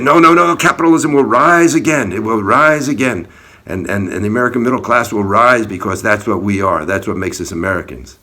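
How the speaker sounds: high, loud mock rant with a strained edge; imitating his yelling. Retelling the maskless man's rant at him, high loud yell. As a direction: shout it the way the ranting man did, high and loud. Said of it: "he started yelling and ranting".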